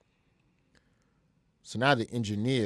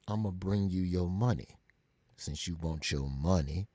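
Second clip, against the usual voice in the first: Jay Prince; 4 semitones lower, 3 dB quieter than usual. Retold or imitated. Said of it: "he speaks real slow".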